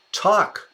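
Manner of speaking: Tuck said high and sharp; Tuck, called out as the right word; emphatic correction. Shown as a demonstration.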